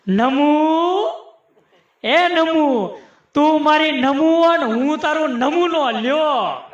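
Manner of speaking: mock-loving husband cooing a pet name; playful, lovey-dovey call; affectionate calling. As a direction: call to your wife lovingly, drawing it out. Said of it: "સાહેબ ઈ પ્રેમથી બોલાવો".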